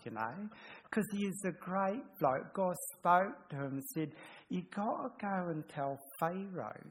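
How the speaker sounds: a hint of a larrikin storyteller hamming it up for kids; playful kids' Bible story voice. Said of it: "I'd trip into, um, different voices and stuff".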